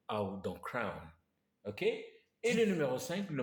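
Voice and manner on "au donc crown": "crown" drawn out slowly with the diphthong "au"; English diphthong. Shown as a demonstration. Teacher demonstrating the English "crown", slow diphthong. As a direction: stretch the "au" in "crown". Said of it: "vous entendez plutôt la diphtongue au".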